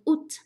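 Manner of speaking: "août" said as "oot", with the t sounded; careful pronunciation. Shown as a demonstration. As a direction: model "août" clearly as one syllable, "oot". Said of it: "注意一下这个发音".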